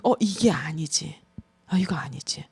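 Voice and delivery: slow, soft whisper of realization; inner whisper. Retold or imitated. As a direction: hush it to yourself, catching yourself. 속으로 하는 자각. (스스로 깨닫는 느린 속삭임)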